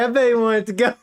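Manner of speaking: a cheeky dig, cracking up; snarky aside. Retold or imitated. Streamer jokes to viewers in a high, laughing snarky voice. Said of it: "I'm like".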